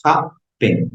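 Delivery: "Happen" in two separate beats, hap-pen; split into syllables. Shown as a demonstration. Teacher showing a class a two-syllable verb, syllable by syllable "Happen". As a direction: count out both syllables of "Happen". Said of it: "Verbos de dos o más sílabas".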